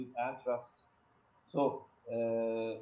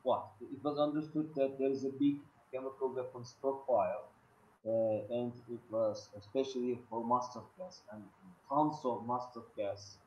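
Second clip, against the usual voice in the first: ordinary delivery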